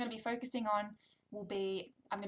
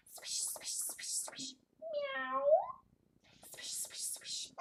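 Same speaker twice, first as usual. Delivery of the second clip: whispered sound words; much slower than usual. Shown as a demonstration. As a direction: hush it out.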